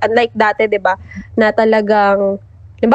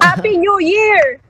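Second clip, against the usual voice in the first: high, slow, sing-song mock greeting for the dogs; 9 semitones higher, slower than usual. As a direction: lightly play the barking dogs wishing a happy new year. Dogs barking, voiced New Year greeting.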